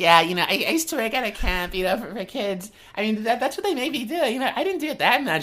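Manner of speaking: goofy, very high put-on woman's voice. Retelling an overheard chat, mocking the woman's answer to the guy, goofy mockery of her voice. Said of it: "a goofy mockery of her voice".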